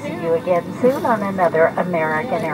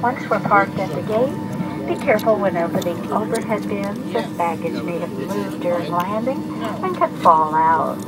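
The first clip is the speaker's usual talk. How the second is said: airport announcement. Real, not acted. Airline cabin announcement played.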